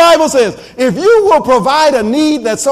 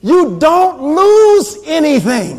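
emphatic preaching; 3 semitones higher, slower than usual. Real, not acted.

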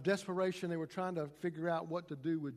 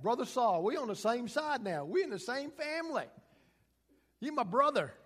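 joyful welcome; 5 semitones higher, 5 dB louder than usual. Acted. Ananias welcomes Saul.

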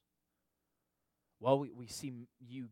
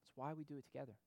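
the refrain again, much softer; soft echo; 13 dB quieter, faster than usual. Real, not acted. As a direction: let it sink in, nearly under the breath.

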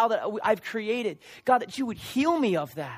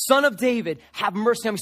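raised-voice plea, louder at the start; mild imitated shout for mercy; retold shout; 4 dB louder than usual. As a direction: call out as if over a crowd. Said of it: "he shouted all the more".

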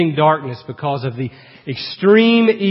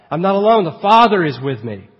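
wholehearted rejoicing; 3 semitones higher, 4 dB louder than usual. Acted. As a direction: affirm it wholeheartedly. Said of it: "could say wholeheartedly".

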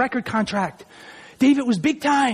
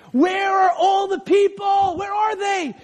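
high, slow cry for the missing people; anguished shout; 10 semitones higher, slower than usual. Acted. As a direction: plead into the emptiness. David crying out for his people.

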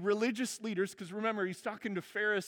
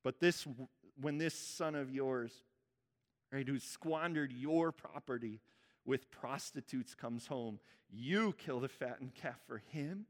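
a slow, low, bitter grievance; resentful protest; 6 semitones lower, 4 dB quieter, slower than usual. Retold or imitated. Older son protesting to his father, bitter. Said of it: "he goes on to say this".

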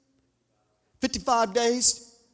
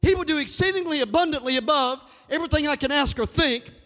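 fervent revival preacher, higher than plain talk; full-force preaching; 5 semitones higher than usual. Real, not acted. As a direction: drive each declaration home to the congregation.

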